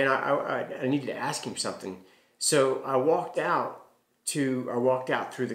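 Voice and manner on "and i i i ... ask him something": ordinary talk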